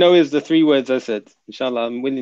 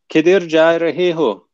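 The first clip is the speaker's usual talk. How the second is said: attempted Pakistani accent; 4 dB louder, slower than usual. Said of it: "I even got the accent down".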